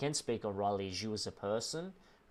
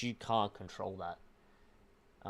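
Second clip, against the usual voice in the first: "can't" drawn out, every word spaced and weighed; gentle but firm, very slow delivery; slow and deliberate; much slower than usual. Shown as a demonstration. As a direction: say "You can't control that" slowly, pressing on "can't". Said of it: "I hate to say this".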